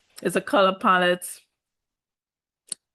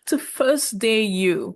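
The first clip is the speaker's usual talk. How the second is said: mocking Ariana; 4 semitones higher, slower than usual. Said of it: "So this is Ariana".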